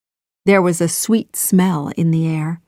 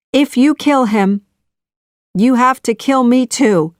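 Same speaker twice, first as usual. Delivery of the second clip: pleading; 6 semitones higher, 4 dB louder than usual. A narrator's reading. Daughter pleads for a life.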